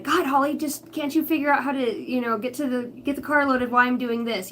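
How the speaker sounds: mildly exasperated retold daughter; imitated frustration. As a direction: mimic her frustrated pleading, lightly.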